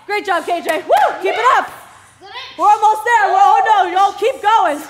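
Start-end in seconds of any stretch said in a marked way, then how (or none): 0.8-1.2 1 excited woo. Real, not acted. Cheering on a class member.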